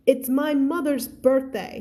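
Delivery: understated unsteady plea; struggling to stay steady. Acted. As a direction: read it as a slow, gentle plea. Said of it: "struggling to keep his voice".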